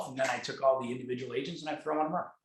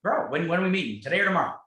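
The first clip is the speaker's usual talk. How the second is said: much higher and louder, pressing for a date; retold insistent push; 5 semitones higher, 5 dB louder than usual. Speaker pressing his friend to meet, in an eager loud voice. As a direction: push him to commit, eager. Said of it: "I said".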